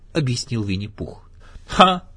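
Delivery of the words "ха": loud, high "Ha!"; exclaiming. A narrator's reading. Donkey reacts to Pooh dressing as Santa, loud exclamation. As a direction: burst out with one scoffing syllable. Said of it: "воскликнул Иа".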